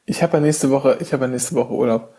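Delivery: talking around a mouthful of ice cream; chewing while talking. Real, not acted. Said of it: "Ich esse grad Eis".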